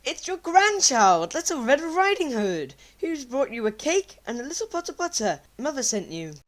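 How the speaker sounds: girl answering in a mild mock hoarse voice. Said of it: "with hoarse answered".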